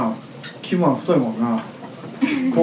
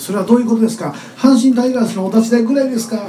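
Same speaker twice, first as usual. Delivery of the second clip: mock Kansai comeback; 6 semitones higher, 3 dB louder than usual. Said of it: "関西で返すノリはどうや".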